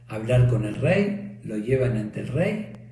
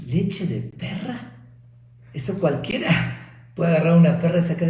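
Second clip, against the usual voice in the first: a king scandalised by the insult; angry king; 3 semitones higher than usual. Acted. King furious at wrong milk.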